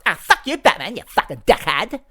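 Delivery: nose in the air, sneer the insults at Batman; Fat Bitch voice. Retold or imitated. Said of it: "That's the way she sounds".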